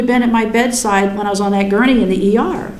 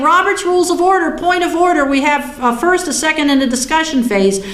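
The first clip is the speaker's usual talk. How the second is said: mock indignant; 5 semitones higher than usual. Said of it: "I was ticked off".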